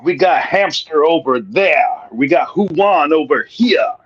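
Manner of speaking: put-on slow, clumsy New Jersey accent; a weak New Jersey accent, barely there; bad New Jersey accent. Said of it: "really terrible New Jersey accent".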